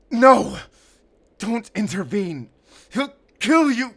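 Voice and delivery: loud frightened begging; desperate plea. Acted. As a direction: beg him to run for his life. Begging Schäfer to flee.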